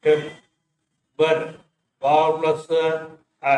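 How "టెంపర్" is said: టెంపర్ stretched out very slowly, syllable by syllable; sounded out slowly. Shown as a demonstration. Teacher blending టెంపర్ slowly for her pupils. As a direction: draw out టెంపర్ slowly so each sound is clear. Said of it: "టా plus ఏ".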